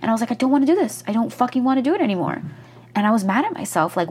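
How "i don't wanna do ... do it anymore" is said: higher, exasperated venting; frustrated outburst. Retold or imitated. Burned-out creator quoting herself, frustrated. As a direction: blurt it out fed up, a little faster.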